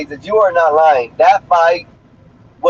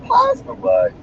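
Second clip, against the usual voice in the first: high mock question; slower than usual.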